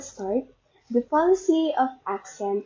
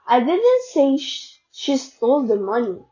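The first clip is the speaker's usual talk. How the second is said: "didn't" stressed as a denial. Shown as a demonstration. Student showing she never said it, stress on "didn't". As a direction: lean on "didn't". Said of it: "I never said it at all".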